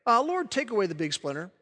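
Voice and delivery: offhand, mock-casual little prayer; casually imitating a half-hearted prayer. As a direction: toss it off like a routine request to God. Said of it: "just one of those things like".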